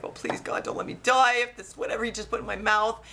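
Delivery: mild mock panic, pleading for your life; freaking out. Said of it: "I'm, like, freaking out".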